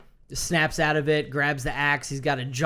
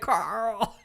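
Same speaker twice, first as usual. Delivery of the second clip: cracking up mid-line; laughing; 7 semitones higher than usual. Real, not acted. Retelling Carl's moment and breaking into laughter. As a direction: giggle through the name.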